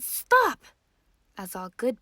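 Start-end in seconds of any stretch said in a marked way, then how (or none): 0.0-0.6 sharp, high shout; parents yell. Acted. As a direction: yell it to stop the child. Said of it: "Her parents yelled".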